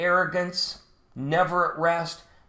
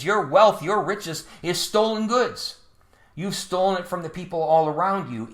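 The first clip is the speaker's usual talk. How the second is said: higher, louder preaching as God; God's warning; 3 semitones higher, 3 dB louder than usual. Acted. God warning the Babylonians, loud and raised. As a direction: thunder a divine woe at them. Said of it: "So God is saying".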